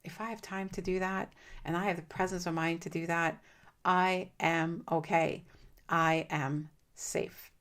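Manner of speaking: slow, soft, calming self-talk; calm slow reassurance. Shown as a demonstration. After the exhale, slow calming self-talk to yourself. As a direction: settle yourself, word by word. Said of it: "But if you can go".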